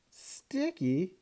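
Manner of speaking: high, gasping question; gasped. A narrator's reading. Mom shocked at the gecko's name, gasping. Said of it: "my mom gasped".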